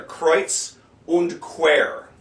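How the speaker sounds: very slow "kreuz und quer", word by word. Shown as a demonstration. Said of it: "there's an E U in there".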